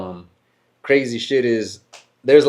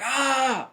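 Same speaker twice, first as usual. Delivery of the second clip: mock scream; 13 semitones higher, 5 dB quieter than usual.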